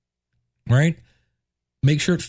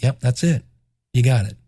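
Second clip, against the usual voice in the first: matter-of-fact confirmation; 5 semitones lower than usual. Retold or imitated. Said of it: "And I'm like".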